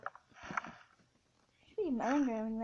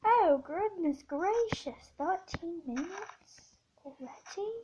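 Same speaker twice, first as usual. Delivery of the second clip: mock astonishment; 4 semitones higher, slower than usual. Real, not acted. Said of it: "surprised at elapsed time".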